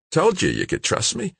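high, easy character voice; reassuring. A narrator's reading. George answers rescued Kimberly, reassuring and high.

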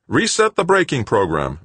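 high, loud curt command. A narrator's reading. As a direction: order it with urgency. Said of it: "Brenard commanded".

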